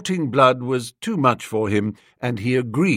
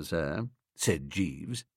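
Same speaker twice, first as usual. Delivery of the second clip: ordinary delivery, nothing marked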